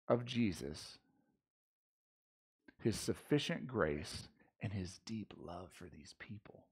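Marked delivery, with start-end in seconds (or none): 4.6-6.6 dropped to a near whisper; hushed. Real, not acted. Preacher telling the church of Paul's love, hushed. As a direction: let the words fall almost silent.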